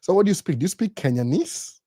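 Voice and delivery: curious American. Retold or imitated. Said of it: "alikuwa anauliza".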